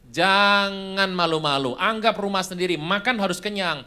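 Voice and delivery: lightly voiced pushy mother; hearty hostess. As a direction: urge the guest to eat heartily. Mother urges guest to eat.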